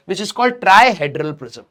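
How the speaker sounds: drawn out word by word; slow emphatic naming of the term; slow dictation. Shown as a demonstration. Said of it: "सिर्फ यही वाला प्रिज्म है".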